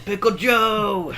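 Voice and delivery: high drawn-out call; shouted. Pretend. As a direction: call the name out slowly. Echoing the shouted bit.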